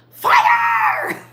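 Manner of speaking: high, loud mock superhero cry; mock fire shout. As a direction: blast it like a comic-book power. Imagining mutant fire powers.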